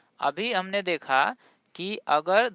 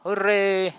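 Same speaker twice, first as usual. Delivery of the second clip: louder, celebratory hurray; demonstrated joyful exclamation; happy cheer; 5 dB louder than usual. Shown as a demonstration. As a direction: cheer it out like someone delighted. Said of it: "कोई खुश होता है तो बोलता है".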